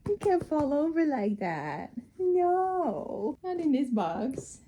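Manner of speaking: stretched-out, playful coo; cooing pet talk. Real, not acted. Baby-talking to pet in box.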